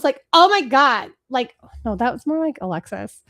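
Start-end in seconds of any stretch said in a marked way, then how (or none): 0.3-1.1 lightly attempted dramatic exclamation, louder; a hint of sitcom diva exclaiming; Moira Rose. Host tries a sitcom character, lightly put-on exclamation. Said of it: "Moira Rose".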